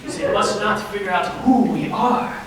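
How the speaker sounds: a lightly put-on French accent. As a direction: play a hammy fake French chef in a French accent. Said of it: "that sounds German".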